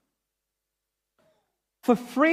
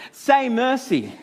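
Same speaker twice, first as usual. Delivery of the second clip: slow, higher-pitched imitation of a jeering crowd's call; half-hearted drawn-out crowd chant; mock crowd shout; 4 semitones higher, slower than usual. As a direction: call it out like a crowd, without real volume. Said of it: "the crowd who are watching are shouting".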